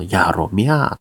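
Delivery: Nagoya dialect, drawn-out ending; 名古屋弁. Shown as a demonstration. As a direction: slowly demonstrate Nagoya intonation on やろみゃー. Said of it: "三つ目が上がるって話で". (名古屋弁で語尾を伸ばして)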